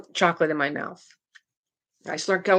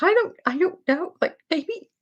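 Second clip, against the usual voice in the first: mock tearful little girl; imitated crying; 11 semitones higher than usual. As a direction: whine it through pretend tears. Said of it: "She's just crying".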